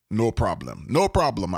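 lightly put-on Jamaican accent; easygoing reassurance with a hint of Jamaican accent. Podcast host quoting a breezy contractor, light Jamaican accent. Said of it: "a Jamaican accent".

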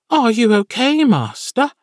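high, squeaky little familiar; high creature voice. Acted. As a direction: pitch it way up like a small imp. Sammy checks on Jag.

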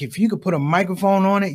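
ordinary talk

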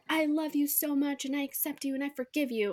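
imitated sugary acceptance; mock lovingness. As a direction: gush it as a put-on declaration of love. Mimics instant loving forgiveness.

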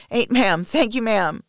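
high, loud, anguished thanks; sobbed cry. Acted. Submissive counting strokes through tears, sobbed cry. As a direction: cry it out, pitched well up. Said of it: "I sob".

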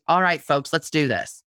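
friendly, easygoing get-going; folksy rally call. Shown as a demonstration. Blogger showing her natural voice, relaxed and folksy. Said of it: "My voice is".

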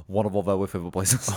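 talking like to a dog; the voice for the doggies. Acted. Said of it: "My dog voice".

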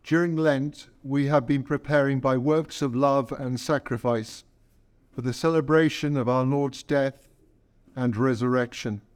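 measured, solemn leading of prayer; liturgical prayer. Acted. Priest opening the Palm Sunday liturgy, solemn and measured. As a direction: lead the congregation in prayer, unhurried.

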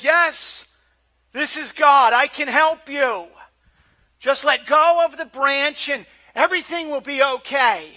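big, loud heavenly announcement; booming voice of God. Retold or imitated. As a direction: boom it out like God from above. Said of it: "a booming voice. He says".

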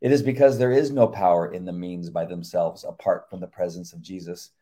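measured earnest sermon reading; devotional reading. Acted. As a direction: read it like a sermon. Reads devotional aloud.

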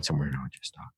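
low, rough after two concerts; tired worn-out singing voice; hoarse voice. Real, not acted. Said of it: "I just have to talk like this".

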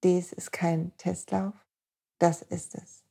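slow hushed whisper, no voice. Acted. Podcast host whispering to listener that life is no test run. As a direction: breathe it like a secret.

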